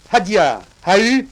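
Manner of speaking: loud, rising calls to the cart team; driver's cries. Acted. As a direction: call out to urge the animals on. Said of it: "de mes cris".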